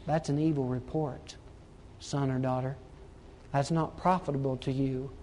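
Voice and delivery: soft, low, quiet correction. Acted. God speaking to a son or daughter, very quietly. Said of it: "He's just saying very quietly".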